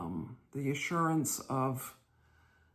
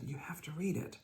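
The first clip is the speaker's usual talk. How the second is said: hushed insistence; 7 dB quieter than usual. Retold or imitated. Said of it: "And Mister Campbell said".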